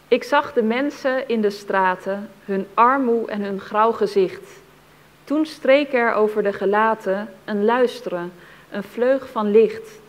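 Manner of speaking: measured, deliberate verse reading; poem recitation. Acted. Reader describing people hearing the carillon, measured poem recitation. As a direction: recite it carefully, phrase by phrase.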